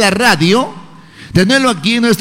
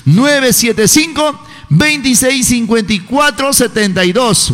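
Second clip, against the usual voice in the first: slow number dictation. Shown as a demonstration. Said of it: "me escriben al WhatsApp".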